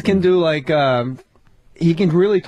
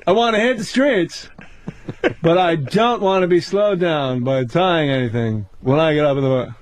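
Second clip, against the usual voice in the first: Seinfeld impression; 3 semitones lower than usual. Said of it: "What's the deal".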